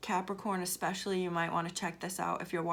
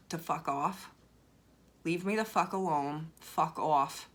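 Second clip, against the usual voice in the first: lower, steady and firmly sincere; mean it, no drama, just firm; stern sincerity; 3 semitones lower than usual. Shown as a demonstration. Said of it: "say it with stern sincerity".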